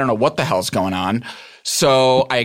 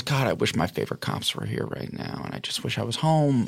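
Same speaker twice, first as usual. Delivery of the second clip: inner thought; 7 dB quieter than usual. Retold or imitated. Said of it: "think about was".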